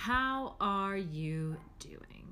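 drawn out, asking for real; slow down and truly mean the question; a slow, earnest check-in; slow sincere ask. Shown as a demonstration. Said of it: "I want you to really answer that".

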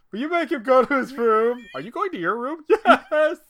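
high, put-on sing-song family voice; mock childish voice. Dad playing out a family bedtime scene in a high silly voice. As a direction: play it like a silly little skit.

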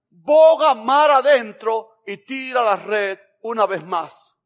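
loud, slow, stretched-out command; booming command. Acted. Jesus ordering Peter back out to fish, booming command. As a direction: proclaim it slowly and forcefully, easing off at the end.

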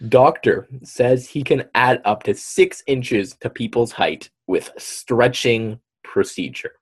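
slow, emphatic headline announcement; headline read-aloud. Acted.

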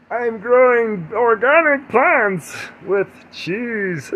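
slow, high, loud hippie voice; drawn-out spoof of a hippie. Acted. Podcaster mocking a friend in hippie land, hippie voice. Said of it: "out there in hippie land doing hippie things".

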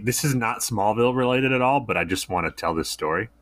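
speaking through a swollen lip. Real, not acted. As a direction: talk around a puffy split lip. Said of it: "if I sound funny, it's because half my lip is swollen".

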